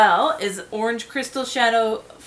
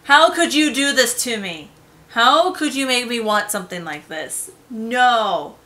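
mock scolding; 5 dB louder than usual. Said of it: "I'm gonna shake my finger at you".

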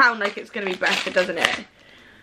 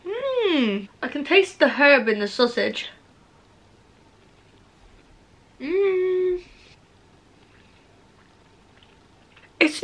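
chewing between words; eating a sandwich while talking; mouth full, chewing; 5 semitones higher than usual. Real, not acted. Seen 0: She bites the sandwich at 3.5 and chews with lips closed between words.

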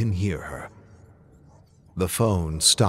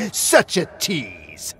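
lightly voiced puppet villain; 3 semitones higher, slower than usual. Ashy closes his scene.

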